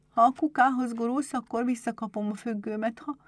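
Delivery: put-on high child voice; little girl betting with herself. A narrator's reading. Berbel talks to the marble, high hopeful child voice. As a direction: play a child making a private wager. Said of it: "fogadott saját magával".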